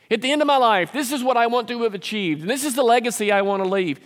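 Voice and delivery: high-pitched, insistent declaration of ambition; mock self-important demand. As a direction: imitate someone set on their own legacy. Mimics self-important prayer about legacy.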